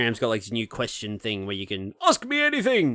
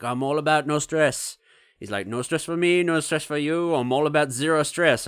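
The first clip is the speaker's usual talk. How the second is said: mimicking the dentist's Indian accent; 3 semitones higher than usual. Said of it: "he's an Indian man".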